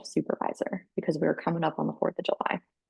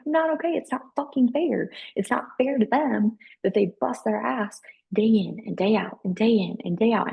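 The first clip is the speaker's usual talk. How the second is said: retold distraught protest, pitched up; crying upset; 4 semitones higher than usual. Pleading with supervisor for her workers, crying upset. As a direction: act out an upset plea for fairness, high at first, then easing. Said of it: "I started just fucking crying on the phone".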